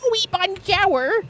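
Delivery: "Oui, bonjour" drawn out very high and slow in broad American sounds; exaggerated American accent. Shown as a demonstration. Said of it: "pronounced in the most American way".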